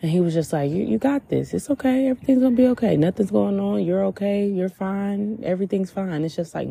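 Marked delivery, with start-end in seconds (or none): 0.7-6.2 higher-pitched, lightly imitated comforting voice; mild reassurance. God answering her crying prayer, lightly voiced reassurance. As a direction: soothe someone upset, pitch lifted then easing down.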